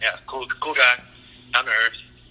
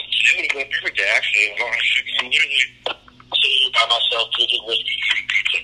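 Alabama accent. Real, not acted. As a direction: speak with a strong Alabama accent. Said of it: "your cousin loving Alabama accent".

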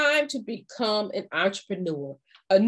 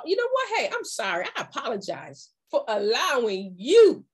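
firm refusal; 2 semitones higher than usual. Shown as a demonstration. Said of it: "let them know".

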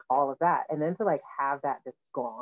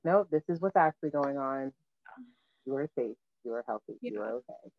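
reassuring self-talk; 4 dB quieter than usual. Retold or imitated.

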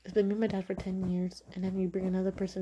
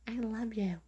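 put-on little kid voice; 4 semitones higher than usual. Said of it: "The little kid's just like".

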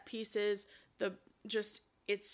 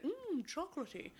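pleased teacher; 7 semitones higher, 8 dB quieter than usual. Retold or imitated. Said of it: "he's like".

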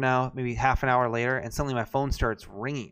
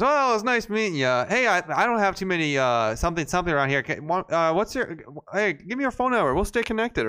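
mock eager guy, pitched higher; light impression of a friendly stranger, raised pitch; imitating the gas station guy; 5 semitones higher than usual. Retelling the Target guy who asks for his number, pitched up. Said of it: "and he goes".

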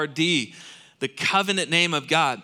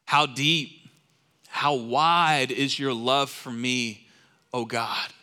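awed prayer; slower than usual. Retold or imitated. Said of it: "He says".

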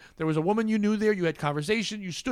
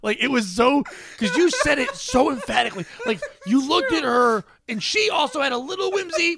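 laughing; 7 semitones higher than usual. Real, not acted. Laughing while retelling.

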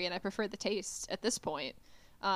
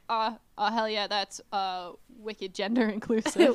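casual, lightly put-on New England accent; easygoing New England slang delivery; 4 dB louder than usual. Correcting how New Englanders would say it, light New England accent. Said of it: "I think it would be more like".

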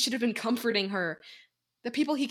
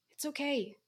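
murmured; 5 semitones higher, 8 dB quieter than usual. Acted. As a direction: murmur it gently to comfort. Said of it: "she murmured".

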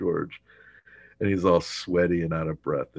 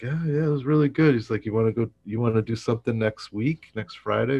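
eager; 5 semitones higher, 4 dB louder, faster than usual. Retold or imitated. Keith eager after the date.

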